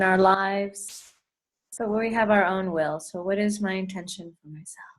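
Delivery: unhurried meditation leader, long pauses between phrases; guided meditation. Acted. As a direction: guide them gently through breath and intention. Leads a meditation.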